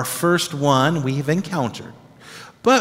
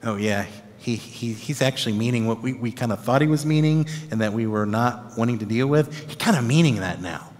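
dawning realisation; 4 semitones lower, 5 dB quieter than usual. Retold or imitated. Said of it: "the disciples are gonna be like".

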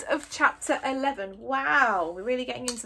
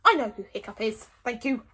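uncomfortably; 6 dB louder than usual. Acted. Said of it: "said Stoic uncomfortably".

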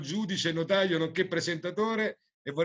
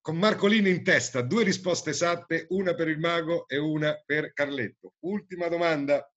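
showy game show host. Acted. Quiz host reading question.

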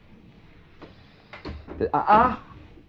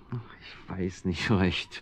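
hesitant whisper; 4 semitones lower, 7 dB quieter, much slower than usual. Acted. Hesitant reply to cat's oath.

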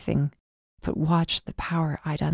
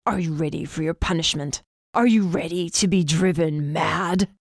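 menacing stranger. Acted. Stranger threatening Megan with punishment, cold menace. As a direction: threaten her, drawing the last line out.

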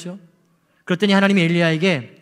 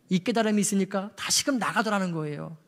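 soft repeat; 8 dB quieter than usual. Real, not acted. Preacher echoes the point to the congregation softly. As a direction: drop it to an intimate hush.

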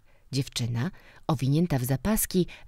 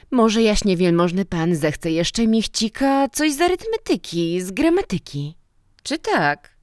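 louder, higher, animated character voices; acted dialogue of eager teacher and director; 5 semitones higher, 5 dB louder than usual. A narrator's reading. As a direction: play the exchange up, high and loud. (ożywiony dialog postaci)

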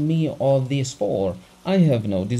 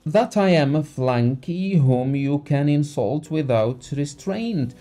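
raised furious voice; angry shouting; 4 semitones higher, 4 dB louder than usual. Acted. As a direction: shout him down in rage. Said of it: "he shouted".

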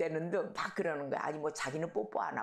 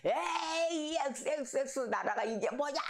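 retold shout; 8 semitones higher than usual. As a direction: re-enact his outburst, pitched high. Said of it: "자기도 모르게 소리를 막 질렀다는 거야".

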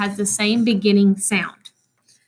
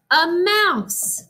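surprised reveal; 7 semitones higher than usual. Acted. Reveal of the mouse.

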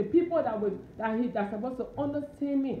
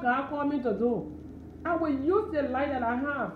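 a touch louder, excuse-making believer, lightly voiced; mocking excuse-maker; 2 semitones higher, 3 dB louder than usual. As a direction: play the hesitant believer's excuses, half-mocking. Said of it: "Stop holding back".

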